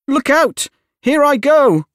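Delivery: high-pitched melting witch's lament; despairing witch, climbing to a final shriek; wailing, despairing. A narrator's reading. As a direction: wail your last words, building to a high, loud cry. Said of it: "in a wailing, despairing voice".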